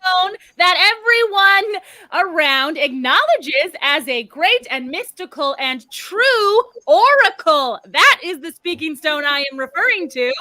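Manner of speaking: lofty, insistent proclamation; indignant, grandiose correction; weird grand talk. Acted. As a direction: declaim it with big swells on key words. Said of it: "She's doing that weird".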